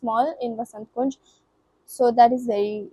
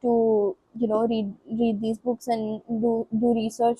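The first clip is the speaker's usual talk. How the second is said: stumbling, stuttering over words; real stutter, tripping on words. Real, not acted. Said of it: "you get why I'm stuttering so much".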